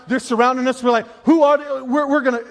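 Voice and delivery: hammed-up alarm, climbing at the end; mock freaking out. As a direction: imitate a crowd starting to panic. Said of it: "They're freaking out".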